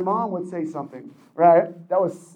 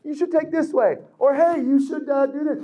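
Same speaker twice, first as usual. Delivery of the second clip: casual suggestion; 8 semitones higher than usual. Retold or imitated. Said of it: "We're just".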